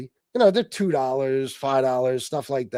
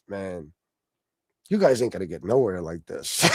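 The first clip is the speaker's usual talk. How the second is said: imitating streamer; 10 semitones lower, 4 dB quieter than usual. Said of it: "He goes".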